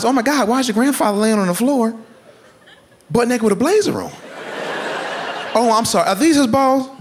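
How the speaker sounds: high startled questions; mock alarmed police. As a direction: gasp at the scene. Police voiced arriving.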